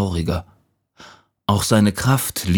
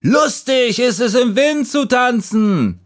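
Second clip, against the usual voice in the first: very high, exuberant call. A narrator's reading. Fallen leaves coaxing the last leaf, high gleeful call. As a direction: cry out with childlike glee. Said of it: "riefen die anderen Blätter".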